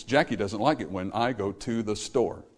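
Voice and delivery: "Jackie doesn't like it when I go to the store" in five grouped beats. Shown as a demonstration. Preacher repeats line over five beats. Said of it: "Spread over five beats".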